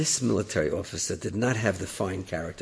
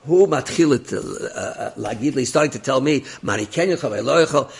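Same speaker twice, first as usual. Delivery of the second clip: screaming into phone; 3 semitones higher, 4 dB louder than usual. Retold or imitated. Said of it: "starts screaming into the phone".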